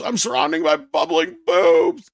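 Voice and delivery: slow, stretched cartoon-villain yell; hammed-up shout. Host goofing on Masters of the Universe with a mock battle cry. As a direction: bellow it like a toy-line baddie.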